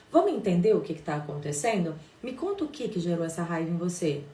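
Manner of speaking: mother calming her angry son, firm but loving; calm, firm and caring. Shown as a demonstration. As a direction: talk to your angry child with calm affection. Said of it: "com firmeza e falo com respeito e com afeto".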